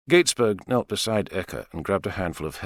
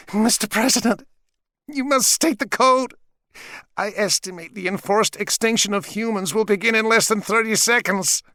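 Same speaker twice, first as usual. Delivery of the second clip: measured, higher robot voice; 12 semitones higher, 3 dB louder than usual. Acted. Robot Eka demands code.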